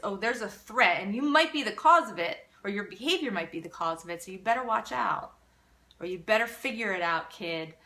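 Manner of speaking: a mock threat to the kid; threatening parent. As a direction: lean in hard like a stressed parent.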